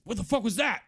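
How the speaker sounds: sudden high startled curse; startled outburst. Acted. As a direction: blurt it out in shock. Duergar startled in water.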